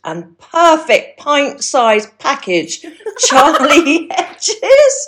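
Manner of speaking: big, slow, rising guest introduction; excited announcement. Acted. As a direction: announce her like a star, then laugh.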